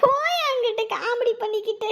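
high, weepy rebuke; tearful scolding. Acted. Wife brushing off her sick husband's joke, tearfully. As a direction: scold him through tears. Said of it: "அழாதீங்க".

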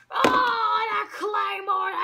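sudden loud "Oh" at the big hit; short shouted commentator gasp; loud exclaim. Acted. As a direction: blurt it out as the move lands. Calling the finishing Claymore.

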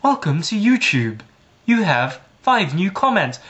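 lightly imitated plastic recorded-voice woman; mock automated greeting. Voicemail woman taking over YouTube, mock automated voice. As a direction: parody a phone-menu voice. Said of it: "it might go like".

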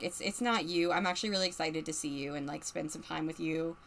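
gently smooth it over, dropping the voice; soft make-up tone, played for a character; acted reassurance. Character soothes the other after apologising.

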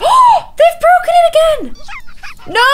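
a parent-gamer seeing the dollhouse broken again; exasperated. Real, not acted. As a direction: cry out in exasperation. Toddlers break dollhouse again.

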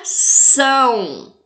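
"São" drawn out with firm weight; isolated stressed syllable. Shown as a demonstration. Teacher answering which syllable is tonic, "São" stressed. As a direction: hold "São" long and strong. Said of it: "Qual que é a sílaba tônica?".

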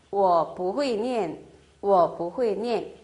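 不会念 stretched syllable by syllable; slow model reading. Shown as a demonstration. Teacher modelling the negative form, very slow. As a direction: spell the tones out slowly. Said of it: "부정 형태는 앞에다가 부사 뿌 넣어서".

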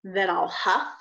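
slow, drawn-out wolf threat; big bad wolf. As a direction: stretch each threat slowly. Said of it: "said the big bad wolf".

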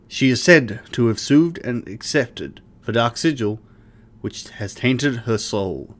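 solemn storyteller read of item lore; dramatic reading. Pretend. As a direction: read it like an epic legend. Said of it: "now my dramatic reading's over".

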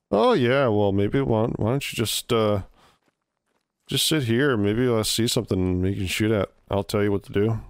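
easygoing Canadian voice; Canadian accent. Retold or imitated. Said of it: "try to do a Canadian accent".

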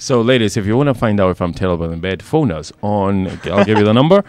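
hammed-up creepy pickup line; creep voice. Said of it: "I put my creep voice on".

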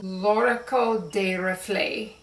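L'Oracle des Reflets in an English-speaker's accent, R rolled; non-French accent. Real, not acted. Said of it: "didn't say that with a French accent".

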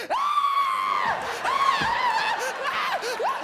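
put-on high shrieking kid yells; mock kid screams. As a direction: shriek like scared third graders. Kids screaming at boo.

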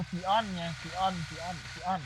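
Xeon spelled out slowly as "see-on", no "n" in the middle; drawn-out "Xeon", repeated to drill the sound; saying Xeon carefully. Shown as a demonstration. Insisting to a friend the chip is called "Xeon". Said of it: "Xeon เออ".

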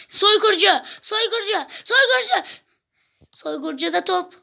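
football play-by-play. Acted. Commentates the second half.

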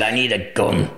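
put-on a barely-there Glasgow accent, said almost plainly; a half-hearted stab at a Glasgow accent; bad Glasgow accent. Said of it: "That's a shit Glasgow accent".

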